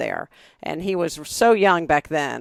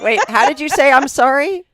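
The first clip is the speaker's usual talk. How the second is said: surprised; 8 semitones higher, 6 dB louder than usual. Real, not acted. Surprised question, loud and high.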